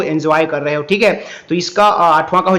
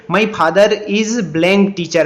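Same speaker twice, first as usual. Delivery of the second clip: slow read-aloud; 2 semitones higher, much slower than usual. Shown as a demonstration. Reads question.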